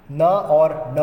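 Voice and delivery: न said two ways, mouth then nose; न once from the mouth, once nasal; contrasting न sounds. Shown as a demonstration. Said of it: "कितना फ़र्क होता है".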